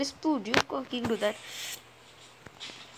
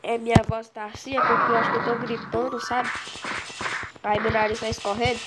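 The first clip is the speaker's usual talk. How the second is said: stuffy sick voice with blocked nose. Real, not acted. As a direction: talk through a head cold and blocked nose. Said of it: "Porque eu tô gripado mesmo".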